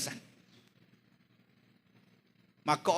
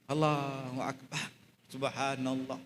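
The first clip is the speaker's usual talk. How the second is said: hushed awe; 5 semitones lower, 8 dB quieter than usual. Real, not acted. Hushed praise after sad story.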